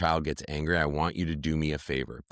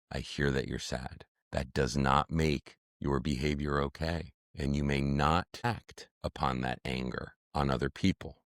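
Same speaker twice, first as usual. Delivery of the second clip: soft, low, gentle reassurance; calm soothing voice; 4 semitones lower, 5 dB quieter than usual. Shown as a demonstration. A parent calmly names a child's anger, soft and low. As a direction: talk down an angry child quietly. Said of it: "You hear the sound of my voice?".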